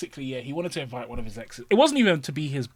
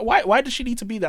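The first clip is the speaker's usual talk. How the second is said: much higher, louder exasperated rant; incredulous outburst; 10 semitones higher, 8 dB louder than usual. Retold or imitated. Ranting at a friend about his worried wife, high and loud. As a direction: rant at your mate. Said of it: "I was like".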